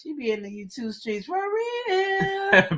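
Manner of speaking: high, drawn-out hype call; hype singsong. Real, not acted. Host hyping Elizabeth in the YouTube streets, high singsong. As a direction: stretch it out high and slow.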